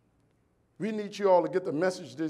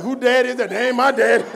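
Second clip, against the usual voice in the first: mock embarrassed son; 4 semitones higher, 9 dB louder than usual. Embarrassed son disowns him.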